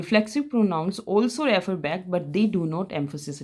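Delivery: reads the rule out slowly for notes; slow, clear English rule read to students; slow dictation read. Shown as a demonstration. Teacher reading a grammar rule aloud to the class, slow and clear.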